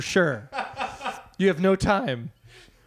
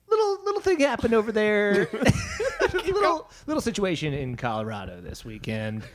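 breezy radio host, much higher; upbeat DJ glossing over bad news; Casey Kasem voice; 6 semitones higher than usual. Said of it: "it's Casey Kasem".

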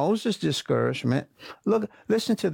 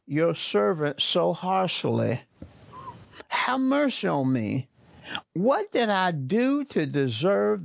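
lightly voiced Moses, a touch of pleading; Moses complaining; 3 semitones higher than usual. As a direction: read Moses' complaint with mild frustration. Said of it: "complaining to God".

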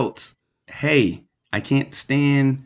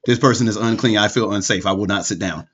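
wife's urgent signal; 5 semitones lower, faster than usual. Retold or imitated. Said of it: "when my wife is like".

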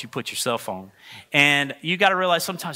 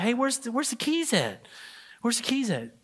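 retold testy question; 7 semitones higher, 5 dB quieter than usual. Acted phone call to wife.

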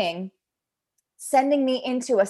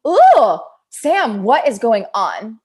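startled self-check; 7 dB louder, slower than usual. Retold or imitated. Catching her own snippy reaction.

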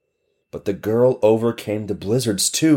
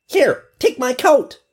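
put-on high, louder child's voice; eager child; 4 dB louder than usual. Friend offering the girl a coat, high and eager.

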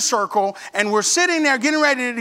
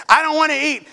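mock sulky refusal, higher pitch; upset; 5 semitones higher than usual. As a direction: whine it like an upset pupil. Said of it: "she knew I was upset".

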